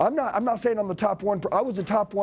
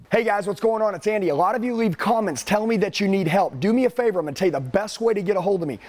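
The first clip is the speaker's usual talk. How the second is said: loud, punchy call-to-action to viewers; video promo; 3 dB louder than usual. Acted. Host urging viewers to text him, loud promo voice.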